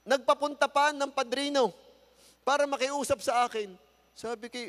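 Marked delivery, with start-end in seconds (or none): none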